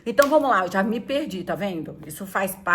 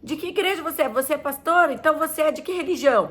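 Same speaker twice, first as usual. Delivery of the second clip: higher puzzled asker; questioner; 6 semitones higher than usual. Retold or imitated. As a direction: quiz her in a higher curious voice. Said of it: "quando eles perguntam assim".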